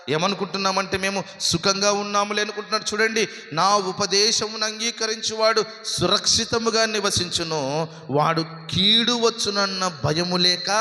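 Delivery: high-pitched scripture recitation; fervent preaching. Acted. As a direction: proclaim the verse to a congregation.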